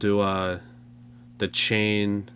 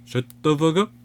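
mock yell; 8 semitones higher, 5 dB louder than usual. Echoing mock outburst at Siri.

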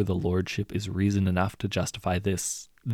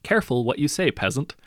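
higher, louder, cold contempt; menacing hero; 6 semitones higher, 4 dB louder than usual. A narrator's reading. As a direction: warn the peasant with the blade drawn. Hero draws his blade.

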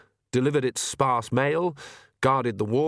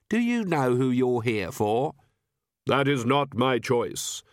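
slow, hollow voice of Death; Death's voice; slower than usual. Acted. Death answering Granny in the dark, grave and hollow. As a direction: speak as Death, unhurried and grave.

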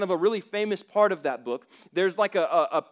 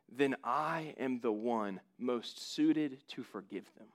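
gentle Christ; 5 semitones lower, 9 dB quieter, slower than usual. Acted. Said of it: "Jesus says".

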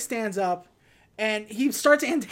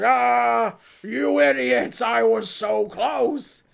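mock villain rant; 3 semitones higher, 5 dB louder, much slower than usual. Villain foiled, retold movie quote.

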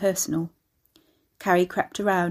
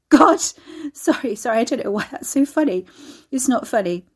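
high, laughing, flustered apology; trying and failing to compose yourself; stifled hysterics; 5 semitones higher, 6 dB louder than usual. A narrator's reading. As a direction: apologise through helpless giggles. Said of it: "She swallowed another snort".

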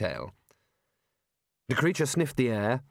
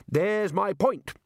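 triumphant; 8 semitones higher, much slower than usual. A narrator's reading. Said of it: "said Ridcully triumphantly".

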